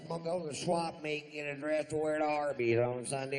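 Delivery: angry redneck wife voice, imitated; mock redneck woman. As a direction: impersonate the loud trashy woman. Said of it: "these two chicks are just jabbering".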